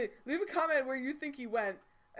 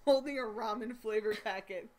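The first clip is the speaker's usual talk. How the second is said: loud, excited underling to the boss; frantic, over-keen henchman yell; eager shout; 8 dB louder than usual. Acted. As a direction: shout it out eagerly, laughing through it.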